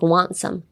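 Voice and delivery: "Want some." with the T in Want left silent. Shown as a demonstration. Teacher showing learners the phrase, silent T. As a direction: drop the T of "Want" and run into "some". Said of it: "you should make it silent".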